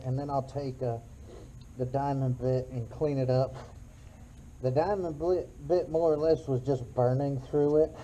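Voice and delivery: talking through a respirator mask; muffled voice behind a mask. Real, not acted. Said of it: "Sorry if I sound funny, I've got my respirator on".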